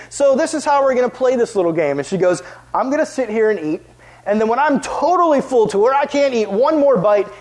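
a hint of a smug, bossy big sister. Big sister gloating over the mac and cheese, mildly bossy.

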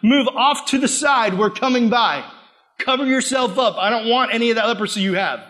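a touch of disgusted crowd voice; shooing someone away, lightly voiced; mock disgust. Crowd shooing the leper aside, mock disgust. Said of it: "people would be like".

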